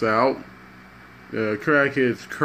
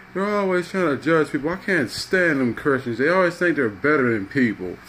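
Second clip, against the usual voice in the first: raised-pitch aggrieved rant, lightly acted; mock crying complaint; 3 semitones higher than usual. Crackhead complaining about judgmental Christians, mildly acted tearful grievance. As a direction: complain as if upset, without real sobs. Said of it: "crackheads in there crying like".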